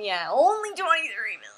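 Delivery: breathy whispered aside. Acted. Streamer whispering to chat in mock awe.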